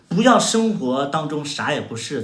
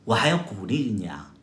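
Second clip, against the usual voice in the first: ordinary talk, nothing marked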